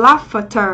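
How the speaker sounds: "laughter" slowly, sounding out the ending; model pronunciation. Shown as a demonstration. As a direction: model "laughter" carefully for learners, slow. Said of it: "chúng ta có từ".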